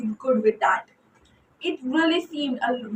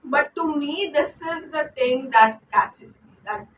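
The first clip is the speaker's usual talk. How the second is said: Indian accent. Real, not acted. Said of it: "I'm really going on with my Indian accent today".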